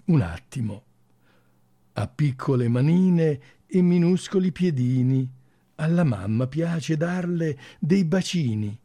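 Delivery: gentle, measured story reading with pauses; fairy-tale reading. Acted. Radio host reads a little girl's tale to listeners, fairy-tale reading.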